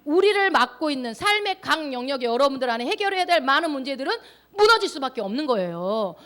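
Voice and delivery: rally the congregation to act; full-force preaching. Real, not acted. Preacher closing the lesson on Jericho, full-force preaching.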